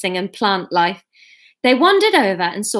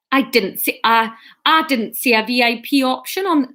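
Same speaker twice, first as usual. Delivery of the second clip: botched Geordie that drifts into Scottish; Geordie attempt gone Scottish; 2 semitones higher than usual. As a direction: try Geordie, land in Scottish. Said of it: "nope, that's Scottish".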